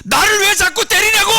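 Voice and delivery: high, loud protesting donkey voice; donkey crying out. Acted. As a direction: shout it as the beaten donkey. Talking donkey cries out.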